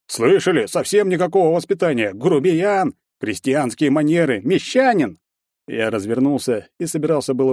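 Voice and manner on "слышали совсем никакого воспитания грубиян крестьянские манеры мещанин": raised, high-pitched chorus of disapproval; croaking indignation. A narrator's reading. Onlookers denouncing the hero's manners, croaking indignantly. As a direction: tut and exclaim in a high voice. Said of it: "заквакали".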